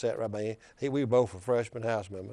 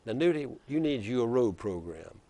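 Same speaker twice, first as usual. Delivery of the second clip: put-on Wallace's Black Belt accent. Wallace lecturing Nudie over the gas tax, in a mild Black Belt accent. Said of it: "he says in that deep black belt accent".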